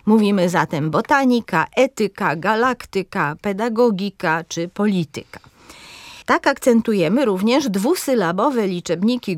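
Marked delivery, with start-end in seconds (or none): 0.9-5.4 boTAnika, Etyka, gaLAktyka, pedaGOgika, poLItyka; stress on third-last syllable. Shown as a demonstration. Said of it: "akcentujemy trzecią sylabę".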